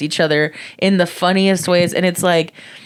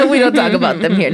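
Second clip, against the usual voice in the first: playful mock warning, quicker; mock stern; 3 semitones higher, faster than usual. Joking to friends, mock stern warning. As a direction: pretend to shut the topic down. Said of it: "No, I'm just kidding".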